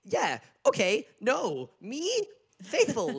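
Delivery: high, loud, blurted one word at a time; panicked monosyllables. Retold or imitated. Imitating a contestant cornered at the table, panicked. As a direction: imitate someone panicking mid-mouthful. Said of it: "a heightened sense of panic".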